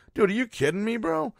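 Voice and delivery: can't believe it, voice climbing high; incredulous outburst. Real, not acted. Podcaster venting about an Uber video, incredulous high outburst. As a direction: pitch shoots way up in disbelief. Host outraged at no charges.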